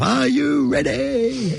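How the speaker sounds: strong Kiwi twang, slow and drawn; slow MC call in a Kiwi accent. Retold or imitated. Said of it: "she had this really strong Kiwi twang".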